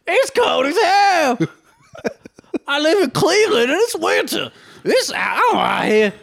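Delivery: offensive Black-man caricature. Acted. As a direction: holler a crude caricature, far above your own pitch. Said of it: "Do offensive black guy".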